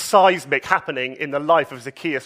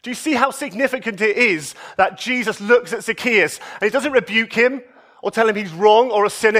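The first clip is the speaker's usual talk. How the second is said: usual speaking voice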